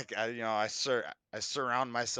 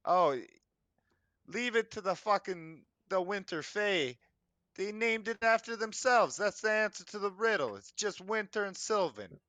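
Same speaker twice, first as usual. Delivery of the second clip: high ranting goblin; 7 semitones higher than usual. Acted. Goblin character rants about Fae.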